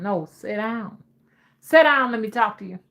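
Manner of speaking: SIT DOWN firmly as "set down"; Mama's pronunciation. Shown as a demonstration. Mama insisting to her kids, sit down as "set down". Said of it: "No, Mama, it's sit down".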